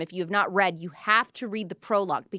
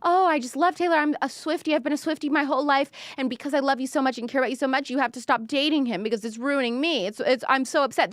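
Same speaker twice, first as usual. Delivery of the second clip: higher, gushing fake-sweet fan voice; higher, quickly gushing mock fan; 4 semitones higher, faster than usual. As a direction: parody a two-faced fan. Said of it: "So these are evil people".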